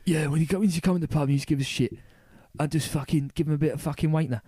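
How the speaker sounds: lightly voiced cockney tough guy; a hint of pub hard-man swagger. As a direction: retell it as a cocky cockney bruiser, punching the last words. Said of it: "like, cockney".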